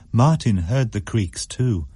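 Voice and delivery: usual speaking voice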